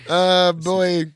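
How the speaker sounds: a light, slow Werner Herzog drone; Herzog impression. Host slips into Herzog musing on the struggle of life, slow. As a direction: muse gravely on life's struggle like Herzog. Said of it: "Why did you sound like Herzog?".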